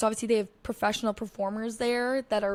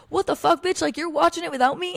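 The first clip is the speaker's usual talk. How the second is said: mock outrage; 6 semitones higher, 5 dB louder than usual. Boyfriend's indignant reply voiced.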